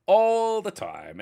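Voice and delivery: high, slow laughing echo; drawn-out laugh through the words. Real, not acted. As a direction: laugh it out in agreement. Laughing agreement.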